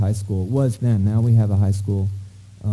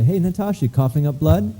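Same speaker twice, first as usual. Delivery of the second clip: blunt cheery doctor; 5 semitones higher than usual. Retold or imitated. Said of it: "I do not say".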